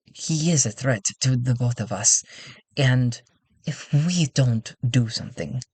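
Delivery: put-on lightly accented, measured councilwoman; careful, halting delivery in a put-on accent; earnest councilwoman in accent. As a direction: confide the threat, pausing between phrases. Plays Sandra answering Talty in accent.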